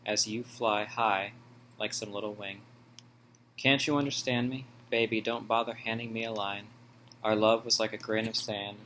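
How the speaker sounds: rhythmic poetry reading, pausing between verses; poem recitation. Real, not acted. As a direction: recite your poem, leaning into each opening phrase. Reads own second poem aloud.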